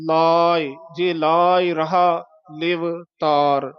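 slow, long "laa" in ਲਾਏ, light "i"; lengthened "aa". Shown as a demonstration. Teacher modelling the whole line slowly, lengthened vowel. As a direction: draw out ਲਾਏ, ਲਿਵ and ਤਾਰ apart. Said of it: "ਈੜੀ ਤੇ ਆਵਾਜ਼ ਛੱਡੋ".

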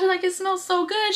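imitating mom. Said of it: "My mom's like".

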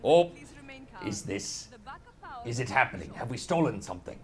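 low, lightly voiced pirate; a hint of a salty pirate. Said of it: "Pirate voice".

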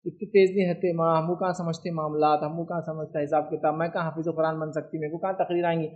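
lightly voiced humble women, low and soft; modest women's protest. Women telling mother they are not so sharp, mock-modest. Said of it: "कुछ लोग औरतें बोलती हैं".

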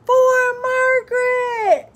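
high, long drawn-out battle cry; battle shout. A narrator's reading. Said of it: "Simon shouted".

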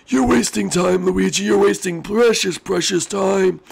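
high, slow urgent warning; high scolding character voice. Acted. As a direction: scold in a squeaky voice.

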